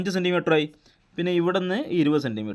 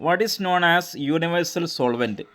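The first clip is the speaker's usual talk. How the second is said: slow dictation reading; 4 semitones higher, much slower than usual. Shown as a demonstration. Teacher reading out quiz question.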